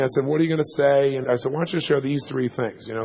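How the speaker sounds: ordinary talk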